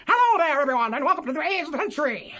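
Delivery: quick mid-century radio host; old-timey radio voice. Shown as a demonstration. Welcoming radio listeners, quick old-timey announcer voice. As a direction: rattle off a welcome like an old broadcast. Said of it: "old-timey voice".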